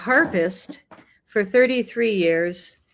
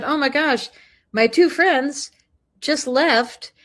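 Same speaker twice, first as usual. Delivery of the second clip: higher-pitched, imitated amazement; retold excited surprise; 7 semitones higher, slower than usual. Shop lady tells visitors of her friends, imitated excitement. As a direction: play her delighted at the coincidence. Retells lady's delighted surprise.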